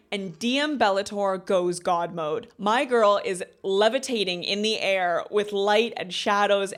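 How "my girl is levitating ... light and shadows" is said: awed hype. Real, not acted. Hyped retelling of heroine's magic climax.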